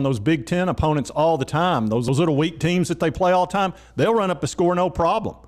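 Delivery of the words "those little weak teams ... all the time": ordinary delivery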